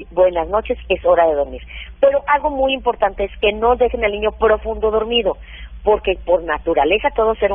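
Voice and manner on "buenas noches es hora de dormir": lower, unruffled goodnight after a cry; madre que calma. Acted. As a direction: settle the child with a lowered voice. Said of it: "Y lo calmas". (buenas noches en tono bajo y tranquilo)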